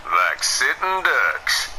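cowboy drawl. Acted. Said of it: "stop talking like a cowboy".

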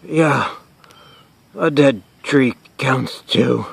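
slow, halting, effortful words; pained concession. Acted. Host under fallen dead tree, slow pained concession. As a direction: labour through it after being hit.

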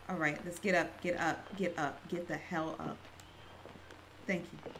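soft, hushed urgency. Real, not acted. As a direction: keep it quiet while sneaking. Sneaking quietly.

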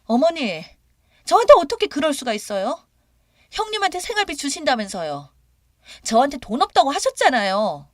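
high, loud, indignant protest; worked-up, shrieky daughter-in-law; agitated yelling. A narrator's reading. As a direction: accuse your mother-in-law in an outburst. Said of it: "욕을 하고 소리를 지르면서요".

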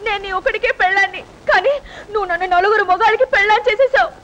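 high-pitched weepy protest; tearful crying. Acted. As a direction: wail the complaint through tears. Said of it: "ఎందుకు ఏడుస్తున్నావు".

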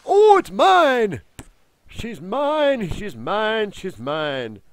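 high, loud gleeful claim, fading; possessive whining. Real, not acted. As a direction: claim her as your own. Claiming the creature.

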